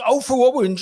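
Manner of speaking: spelling with R as W; Bobby shouting the spelling down the phone; can't say his R's. Retold or imitated. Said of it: "he couldn't pronounce his R's".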